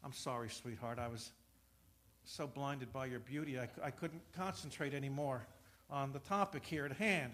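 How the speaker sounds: soft, sheepish flattery; butter her up softly; mock sweet-talk. Husband flattering wife to dodge trouble, soft and sheepish.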